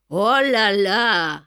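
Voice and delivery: long, loud, drawn-out lament; dismayed exclamation. Acted. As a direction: draw it out slowly at the sight of the damage. Plombier devant les dégâts. (lamentation consternée, lente et appuyée)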